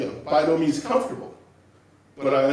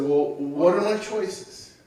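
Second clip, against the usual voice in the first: calm; 6 semitones higher, slower than usual. Retold or imitated. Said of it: "So I was very calm".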